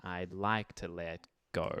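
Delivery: "I'd like to let go" slow and even; on the beat. Shown as a demonstration. Teacher's preferred take before the backphrased one. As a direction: keep "let go" on the beat, unhurried. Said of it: "as opposed to".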